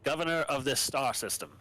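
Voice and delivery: lightly voiced formal governor; a hint of a stern military governor; Medina voice. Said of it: "You can voice Medina".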